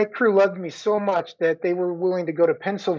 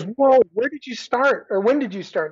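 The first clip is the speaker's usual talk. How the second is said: surprised cop; 6 semitones higher than usual. Retold or imitated. Cop's surprised question voiced.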